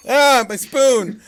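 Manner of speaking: loud, high, slow wail; hammy wrestler voice. Retold or imitated. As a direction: ham it up like a wrestler. Mock wrestler line.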